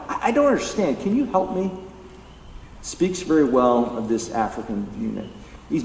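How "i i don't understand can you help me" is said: high-pitched, humble plea for help; unashamed ignorance. Retold or imitated. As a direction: imitate someone openly admitting confusion. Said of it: "a posture of unashamed ignorance".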